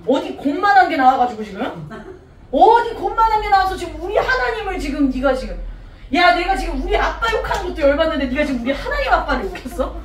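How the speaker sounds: mildly acted outrage; a touch of affronted David standing up for his God; indignant disbelief. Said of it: "다윗이 이거 어이가 없는 거야". (어이없다는 듯 살짝 따지는 말투)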